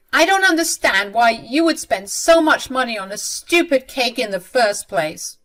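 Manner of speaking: acted mother's indignation; annoyed retort. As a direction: argue back with irritation. Mother argues back at son.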